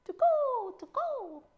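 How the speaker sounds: huge, high gecko call, falling each time; roared. A narrator's reading. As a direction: bellow the call over and over. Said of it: "he roared".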